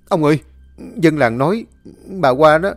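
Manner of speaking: loud, high, breathless alarm; panicked report. Acted. Servant Nô rushing in to warn his master, loud and panicked. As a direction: blurt it out in a panic, rushing the end. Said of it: "anh chạy vào hốt hoảng nói".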